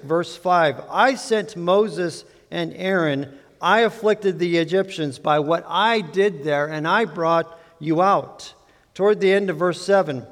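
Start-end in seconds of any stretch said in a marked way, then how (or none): 0.9-8.5 slow, each "I" given weight; emphasis on I. Shown as a demonstration. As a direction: hammer each "I" as God speaks. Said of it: "with some emphasis on the word "I".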